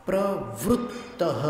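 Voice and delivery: प्रवृत्तः with ऋ spoken like ऊ; u sound demo. Shown as a demonstration. Teacher demonstrates the ऋ pronunciation to students. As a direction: say प्रवृत्तः slowly, ऋ as ऊ. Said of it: "यहाँ पर ऊ जैसा उच्चारण किया है".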